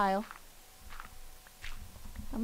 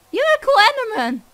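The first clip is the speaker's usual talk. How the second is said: loud, high friendly call; 12 semitones higher, 10 dB louder than usual. Real, not acted. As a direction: call it across to him. Calling out to Enderman.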